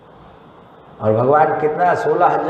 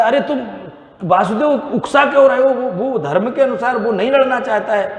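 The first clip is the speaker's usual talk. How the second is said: Karna protesting; 8 semitones higher than usual. Acted.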